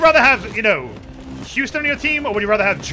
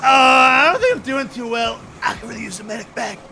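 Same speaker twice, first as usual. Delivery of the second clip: Houston; 4 semitones higher than usual. Retold or imitated. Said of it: "that's how he says it".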